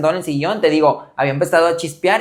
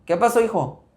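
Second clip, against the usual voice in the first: dry tone; 5 semitones higher than usual. Retold or imitated. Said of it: "Pero medio seco".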